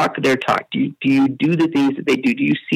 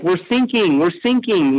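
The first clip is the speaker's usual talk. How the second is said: lightly acted, raised-pitch distress call; retold mayday in an American accent; distressed American sailor; 4 semitones higher than usual. Stranded boater radios German coast guard, mildly acted distress. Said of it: "they're speaking in this American accent".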